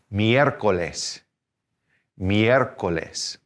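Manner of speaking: "miércoles" with the first E stressed; stress on accented E. Shown as a demonstration. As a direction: lean a little harder on the first E in "miércoles". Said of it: "gonna kinda stress that particular letter".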